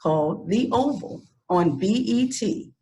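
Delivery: measured read-aloud guest introduction; formal introduction. Real, not acted. Host introduces an actress to the audience, formal introduction. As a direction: present the guest with formal, deliberate phrasing.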